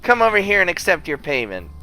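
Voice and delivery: high, loud squeal of delight; excited, high-pitched cheer; overjoyed. Acted. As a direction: gush with playful love, starting loud. Overjoyed at sandwiches, playful affection.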